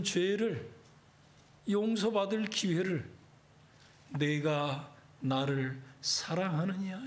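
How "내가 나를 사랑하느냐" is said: slow, hushed whispered question. Acted. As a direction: breathe the question out slowly, no voice. Jesus asks Peter again, whispered.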